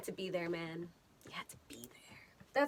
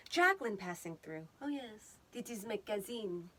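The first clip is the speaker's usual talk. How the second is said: put-on French accent; 4 dB quieter than usual. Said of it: "apparently I'm French now".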